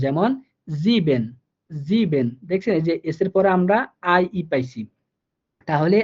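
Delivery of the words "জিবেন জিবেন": জিবেন with ie as a long ই and s said as জ; teacher repeats জিবেন for the class; German pronunciation. Shown as a demonstration. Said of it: "ই এর মতো করে".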